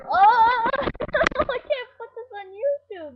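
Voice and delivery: high laughing protest; real laughter. Real, not acted. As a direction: laugh it out in disbelief. Laughing at ruined shot.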